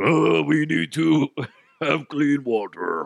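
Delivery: slow, high, dragged-out zombie voice. Talking about water plants shutting down, the speaker throws in a zombie impression. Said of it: "doing a zombie impression".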